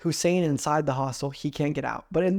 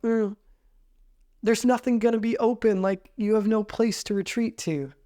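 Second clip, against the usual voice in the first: mock worried girls; 5 semitones higher than usual. Girls' objection.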